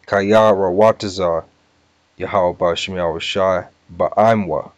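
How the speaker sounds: Hebrew sounded out in separate chunks, long pauses; deliberate word-by-word recitation; slow for understanding. Shown as a demonstration. Teacher making sure all can get it, slow and deliberate. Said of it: "I'm gonna say it slow".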